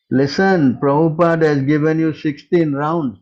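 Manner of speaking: forceful loud reprimand; loud scolding. Real, not acted. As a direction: call out over the line to make him listen. Arguing over the phone.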